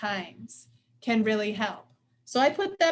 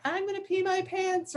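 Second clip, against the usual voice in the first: about to pee laughing; 8 semitones higher than usual. Retold or imitated. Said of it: "you're like".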